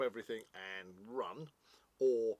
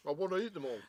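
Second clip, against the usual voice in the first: greedy survivor; 6 semitones higher, 4 dB louder, faster than usual. Retold or imitated. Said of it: "back on that hillside in the apocalypse going".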